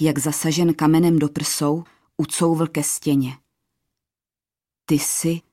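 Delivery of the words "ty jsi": understated astonishment; astonished. A narrator's reading. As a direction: break off in amazement. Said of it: "hles užasle".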